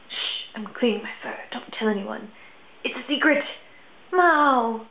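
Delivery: cat's inner voice. Pretend. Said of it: "He's like".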